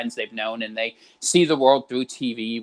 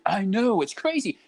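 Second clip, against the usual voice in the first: higher, cooing agreement; sweetly agree, pitched up; sympathetic agreeing; 7 semitones higher than usual. Retold or imitated. Agreeing with a boomer to flatter, high cooing voice. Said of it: "It's like".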